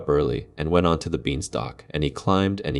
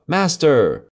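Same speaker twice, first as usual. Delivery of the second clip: loud, much higher alarm cry; 11 semitones higher, 6 dB louder than usual. Acted. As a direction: shriek a warning to the master. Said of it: "the harp cried out".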